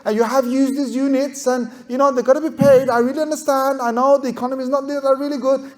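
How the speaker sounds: smooth, trained phone manner, soothing but firm; a hint of a call-centre script voice; professional receptionist. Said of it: "trained as a receptionist on this telephone company to say".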